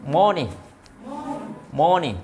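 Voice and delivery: মনি for "morning", long O and no R; silent R. Shown as a demonstration. Teacher showing the class R is silent, মনি without any R. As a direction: say মনি with the R dropped. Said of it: "মাঝখানে আর শেষে আর থাকলে উচ্চারণ হয় না".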